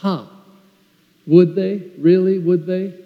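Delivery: doubting rhetorical questions; a touch of scornful doubt; skeptical scoff. Real, not acted. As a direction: question it with pointed disbelief. Scoffs at the mockers' promise.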